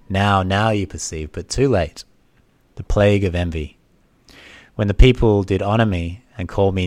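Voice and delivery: formal dramatic lament to grieving parents; emphatic, measured tragic recitation; reproachful Psyche. Acted. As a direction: press the key words firmly, as a doomed daughter's speech. Voices Psyche addressing her parents.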